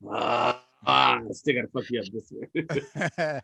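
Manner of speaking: low, soft muttered threat; mock grumble. Guy spotting him in Fubu, low soft joking threat. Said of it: "you be like".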